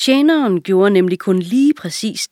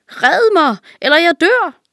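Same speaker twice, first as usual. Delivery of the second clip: high, loud panicked plea; desperate plea; 11 semitones higher, 5 dB louder than usual. A narrator's reading. Hurt king begs the servant to save him, high and loud. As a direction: beg for your life. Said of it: "skreg han".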